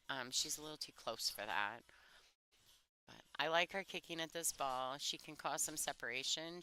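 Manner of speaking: hushed golf announcer; golf commentator voice. Real, not acted. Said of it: "She's found her golf voice".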